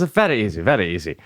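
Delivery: a hint of an Asian woman's accent; imitated Asian coach. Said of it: "that's just how she talks".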